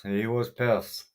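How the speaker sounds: slowed right down, each word leaned on; telling the chat again slowly so it sinks in; slow emphatic repeat. Real, not acted. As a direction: drag it out to drive the point home.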